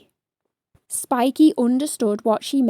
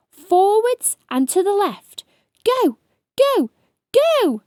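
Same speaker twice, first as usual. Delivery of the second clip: higher, louder urgent commands; urgent orders; 8 semitones higher, 4 dB louder than usual. A narrator's reading. Ladybird steering rolling hedgehog, urgent shout. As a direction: drive him on, faster and louder.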